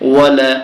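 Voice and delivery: ওয়ালা with both vowels short; no elongation. Shown as a demonstration. Teacher shows a vowel with no pull, short ওয়ালা. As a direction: say ওয়ালা without stretching the last a. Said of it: "তাই টান হচ্ছে না".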